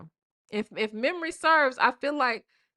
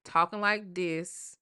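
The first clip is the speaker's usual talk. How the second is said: casual home voice; 3 dB louder, slower than usual. Shown as a demonstration. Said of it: "y'all be at home talking like this".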